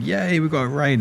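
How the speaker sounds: a quick hammed-up yay; mock raid cheer. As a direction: streamer showing how he normally celebrates a raid, mock cheering. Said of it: "I'm normally like going".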